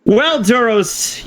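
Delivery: slow, stretched out well; lazy stretched opener; drawn-out well. Acted. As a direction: draw the word out slowly. Player drawls in character.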